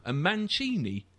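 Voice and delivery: slow, mock Northern accent, getting muddled; slowly mangle Arsene and Arsenal like the Northern fan; Northern fan impression. The speaker impersonates the Northern fan mixing names up, mock Northern accent. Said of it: "He said".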